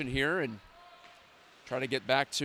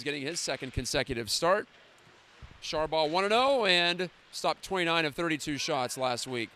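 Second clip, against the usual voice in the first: rapid hockey play-by-play. Acted.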